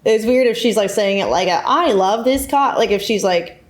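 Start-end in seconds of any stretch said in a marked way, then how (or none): 1.7-2.8 slow, high, forced enthusiasm; hammed-up stiff gushing; awkward insincerity. Shown as a demonstration. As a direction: fake it awkwardly, overplaying each word. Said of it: "doing it awkwardly".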